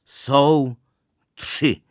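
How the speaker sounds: slow shouted count, stretching the words; called-out countdown. A narrator's reading. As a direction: call out the count before a jump. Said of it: "zvolal podruhé".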